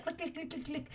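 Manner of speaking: quick run of soft high clicks; imitated clicking. Game master imitates worms opening the lock, quick clicking noises. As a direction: rattle off light lock clicks. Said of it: "you hear a lot of".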